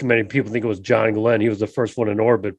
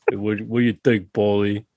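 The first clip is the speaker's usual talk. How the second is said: put-on Boston accent; 3 semitones lower than usual. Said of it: "That was a Boston accent".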